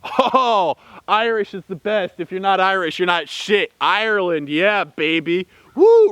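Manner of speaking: mock drunk boasting. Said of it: "they're just getting fucked up and saying".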